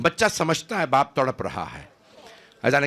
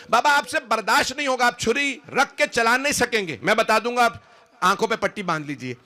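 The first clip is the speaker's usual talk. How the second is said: high, insistent plea to a father; impassioned high-pitched pleading; urgent plea; 10 semitones higher than usual. Retold or imitated. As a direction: imitate a son begging his father, pitched way up. Son pleads with father in retold story.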